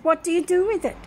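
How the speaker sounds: retold yelling nurse. Nurse pressing for the remedy, fast mock yell. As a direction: snap the question like an exasperated nurse. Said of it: "she kept yelling at me".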